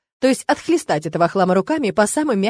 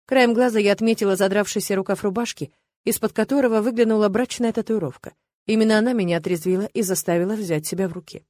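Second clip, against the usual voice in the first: ordinary delivery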